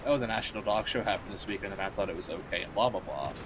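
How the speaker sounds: droning copy of what she just heard; parroting flatly. Retold or imitated. Streamer mimicking a fan who parrots Phil's opinions, mock flat drone. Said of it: "she would say".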